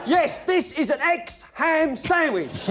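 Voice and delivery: Monty Python sketch voice. Acted. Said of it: "Monty Python".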